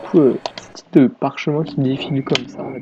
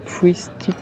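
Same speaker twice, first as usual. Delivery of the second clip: English accent; 2 semitones higher, slower than usual. Shown as a demonstration. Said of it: "Ne jugez pas mon accent anglais".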